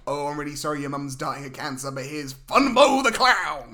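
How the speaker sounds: hammed-up cheerful clown entrance; mock clown intro.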